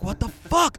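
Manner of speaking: high, loud incredulous question; acted amazement. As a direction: re-enact sheer disbelief. Retells amazement at coincidence.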